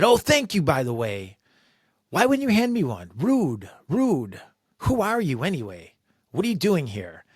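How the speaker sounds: high, loud, sarcastic scolding; angry shout. Retold or imitated. Boss shouting at the new sales rep, high and loud. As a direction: snap at the new guy. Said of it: "she started to shout".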